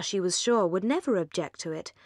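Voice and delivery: usual speaking voice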